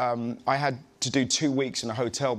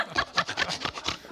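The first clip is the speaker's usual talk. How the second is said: imitated grunting laugh; 4 dB quieter than usual. Shown as a demonstration. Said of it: "she was a real grunter".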